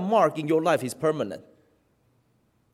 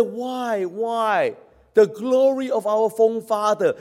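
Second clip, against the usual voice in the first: high-pitched pleading lament; imitated wail of a grieving people; acted bitter lament; 5 semitones higher than usual. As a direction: cry out to God as if grieving. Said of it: "They cried bitterly".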